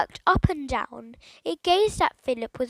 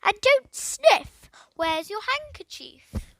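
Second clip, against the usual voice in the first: roaring parrot; 7 semitones higher, slower than usual. A narrator's reading. Parrot roaring orders at Philip, high slow squawk. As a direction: bellow it like a cross bird. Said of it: "roared the voice from nowhere".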